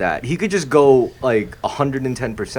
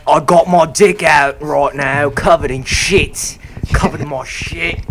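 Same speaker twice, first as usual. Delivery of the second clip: mock streamer voice; 3 semitones higher, 5 dB louder than usual. Mocking streamer on camera.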